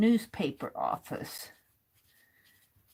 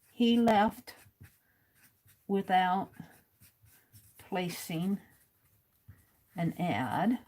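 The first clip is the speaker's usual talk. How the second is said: writing-down pace; 3 semitones lower, slower than usual. Real, not acted. Host writing as fast as she can, halting dictation pace. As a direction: say it piece by piece as you write it. Saying words while writing them down.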